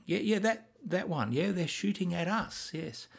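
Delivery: overly polite, hesitant request; a hint of a timid officer asking nicely; mock polite dithering. Tom Hanks playing it as a timid, polite request. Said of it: "That's not battlefield talk".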